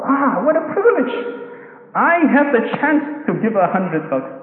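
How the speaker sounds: a high, lightly voiced joyful gasp; delighted wonder. Generous believer glad to give a hundred dollars, high delighted wonder. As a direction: marvel at the chance to give. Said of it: "We never thought".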